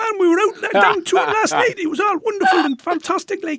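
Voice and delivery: put-on very high-pitched Newcastle Geordie accent. Speaker recalls coming back from visiting cousins in Newcastle as a kid; Geordie accent. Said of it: "I'd come back like".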